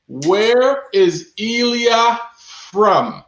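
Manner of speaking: where is Ilya from, each word stretched slowly; slow, drawn-out question. Shown as a demonstration. Host re-asks the viewers slowly, stretching every word. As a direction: slowly repeat the question to the chat.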